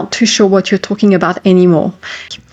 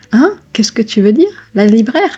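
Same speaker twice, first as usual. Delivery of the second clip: baffled listener, pitch jumping up at each question; puzzled questioning; 3 semitones higher than usual. Acted. French listener not understanding the learner, puzzled. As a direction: query it with a rising, confused tone.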